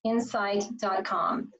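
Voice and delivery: slow, letter by letter spelling; slowly spelling the web address; spelled out slowly. Shown as a demonstration. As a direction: spell it out carefully for viewers. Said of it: "F O R".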